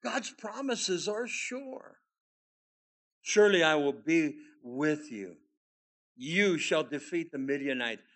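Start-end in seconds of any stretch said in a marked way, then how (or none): 3.2-8.0 loud, weighty repetition of the promise; emphatic scripture. Acted. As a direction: land each word of the promise.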